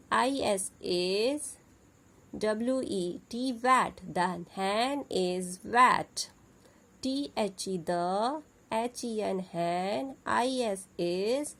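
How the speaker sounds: letter by letter, then the whole word, clear and sing-song; phonics spelling drill. Shown as a demonstration. Teacher spelling words for the kids, clear drill voice. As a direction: spell it out slowly for young learners.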